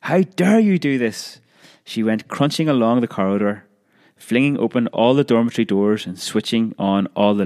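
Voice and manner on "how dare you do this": high, slow, outraged shriek; shrieking matron. A narrator's reading. Matron demanding answers from the dormitories, shrieking high. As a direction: draw it out high in a furious shriek. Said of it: "she was shrieking".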